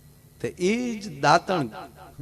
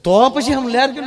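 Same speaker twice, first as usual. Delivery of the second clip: mock incredulous; 7 semitones higher, 7 dB louder than usual. Teasing friend in comic dialogue.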